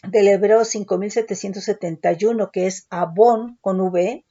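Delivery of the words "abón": "abón" stressed on the O; stress on the last syllable. Shown as a demonstration. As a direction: say "abón" with the accent on its final O. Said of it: "acento en la O".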